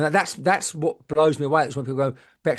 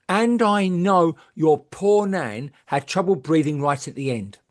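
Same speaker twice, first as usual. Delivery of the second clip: slow, drawn-out solemn reading voice; mock solemn medium; slower than usual. Imitating a psychic's solemn message, slowed right down. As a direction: lay it on like grave news. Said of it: "She went".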